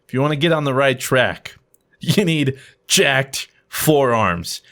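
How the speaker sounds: lightly voiced low motivational pitch; low-pitched hype talk, lightly put on; motivational speaker. Speaker pitching a forearm program to the boss, lightly voiced motivational speaker.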